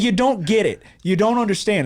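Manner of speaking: loud, high-pitched exasperated pleading; worked-up sports fan; retold freaking out. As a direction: re-enact insisting nobody understands. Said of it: "I'm fucking freaking out".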